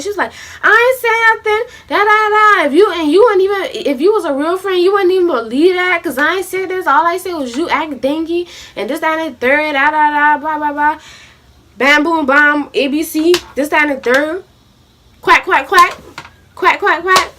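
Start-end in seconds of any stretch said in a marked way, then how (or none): 0.6-14.4 higher-pitched mock retort; defensive rant. Friend denying she said it, mimicked in a defensive rant. 15.2-17.3 higher-pitched quacking in threes; mocking duck quacks. Mocking the friend as a duck, derisive quacking.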